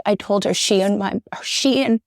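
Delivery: real, understated lump in the throat, slowing down; choked up. Real, not acted. Mother proudly quoting her daughter's words, choked up. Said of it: "See, I get choked up".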